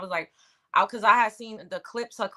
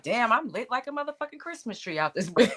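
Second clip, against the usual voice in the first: laughing; 2 semitones higher than usual. Retold or imitated. Laughing through a retold reaction.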